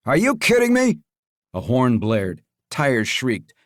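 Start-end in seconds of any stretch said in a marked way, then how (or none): 0.1-1.0 gruff henchman voice. Acted. Leo voiced.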